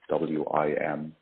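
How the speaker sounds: slow letter-by-letter spelling; spelled out slowly. Shown as a demonstration. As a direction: spell each letter out clearly. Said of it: "sanitary groups such as wim".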